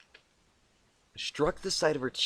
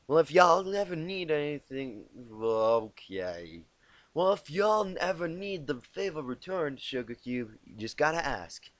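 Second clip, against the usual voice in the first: Applejack; 5 semitones higher, 4 dB louder than usual. A narrator's reading. Applejack voiced in story.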